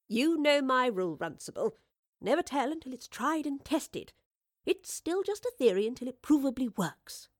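lightly played confident inventor; lightly voiced assured Professor.

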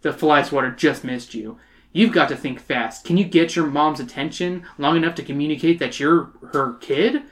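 measured audiobook-style narration; story narration. A narrator's reading. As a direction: read it out as a story.

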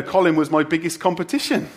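usual speaking voice

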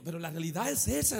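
ordinary delivery

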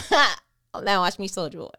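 loud, slow, swaggering taunt; mock boast. Preacher voicing God as a show-off, slow and loud. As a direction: drag out the words like a show-off.

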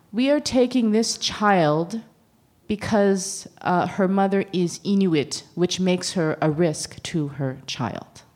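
slow, deliberate read-out of an official statement; reading out paperwork. Retold or imitated. Sarcastic speaker quoting racist paperwork, slow deliberate reading. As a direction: read it slowly, spacing out the phrases. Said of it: "I'm being sarcastic".

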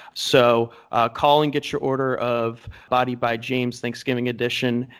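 cheesy TV pitchman voice; infomercial. Pretend. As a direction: sell it like a late-night ad. Mock ad for workout plan.

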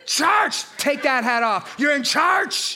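slow, scolding churchy voice with "charch"; stern church elder. Shown as a demonstration. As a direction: scold a kid like a strict church mother. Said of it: "You gotta say it like that".

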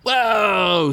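loud high whoa; shocked. Acted. Squeak sees the glint, in shocked awe. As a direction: gasp it out in awe. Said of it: "Squeak said, shocked".

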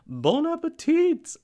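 high, loud, slow sing-song bon appetit; over-the-top cooking-show sign-off; Julia Child impression. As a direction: hoot it grandly like a TV chef signing off. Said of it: "her best, like, Julia Child".

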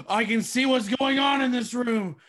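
startled gasp. Acted. Character suddenly sees truth.

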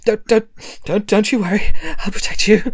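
a touch of a pompous hero promising protection. Acted. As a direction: puff up like a brave guardian. Quill voiced by the game master.

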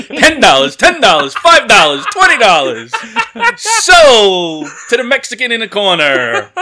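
loud auctioneer calling bids. Pretend. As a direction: sell it off like an auctioneer. Mock auctioneer selling his virginity.

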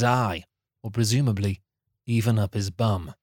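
measured, deadpan storyteller read; deliberate storybook delivery; story narration. A narrator's reading. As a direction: narrate a silly recap like a serious tale. Reads script narration.

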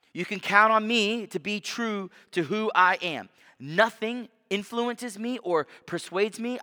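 rising preacher's fervor voicing God's words; majestic proclamation. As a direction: proclaim it as God's grand self-declaration. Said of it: "fantastic and beautiful statement".

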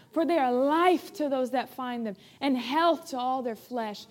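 earnest prayer, spoken out before the congregation; fervent prayer. Real, not acted. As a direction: thank the Lord in steady, rhythmic phrases. Leads an opening prayer.

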